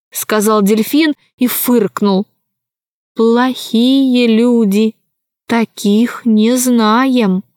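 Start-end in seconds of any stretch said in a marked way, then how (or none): 3.2-7.4 halting dolphin voice. Acted. Dolphin speaks slowly.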